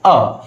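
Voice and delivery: a said as a short uh; the article as a short uh; schwa a. Shown as a demonstration. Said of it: "you will have to pronounce the letter". (a को छोटा अ बोलें)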